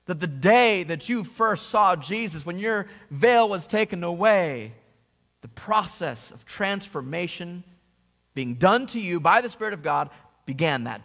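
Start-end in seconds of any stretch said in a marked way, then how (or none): none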